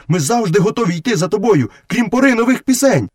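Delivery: high-pitched, earnest wolf voice; devoted wolf brother. Acted. Wolf promising to follow Mowgli, high and earnest. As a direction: pledge loyalty in a high voice.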